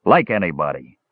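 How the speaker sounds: tipsy dwarf calling through a door; drunken calling out. A narrator's reading. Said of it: "called out the voice".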